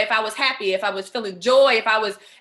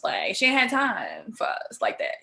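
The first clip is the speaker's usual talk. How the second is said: whispered aside. Real, not acted. Aside about her mother.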